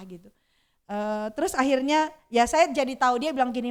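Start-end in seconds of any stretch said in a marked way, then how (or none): none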